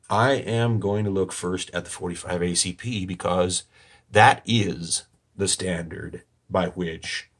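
slow, dry mock authority; deadpan monotone. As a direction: deliver it dead straight, ironic. Mock-pompous claim of expertise.

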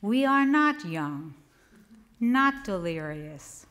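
measured poem recital with deliberate pauses; poetry reading. Acted. Poet reads a just-married poem to an audience, measured poetry reading. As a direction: read it as a poem, letting key words stretch.

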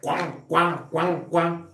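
quacking like a duck. Retold or imitated. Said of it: "empiezan los patos".

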